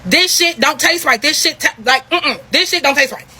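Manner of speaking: two friends realising their drink was spiked, alarmed; alarmed disgust. Retold or imitated. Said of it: "That's the fucking first thing that came out of our mouths".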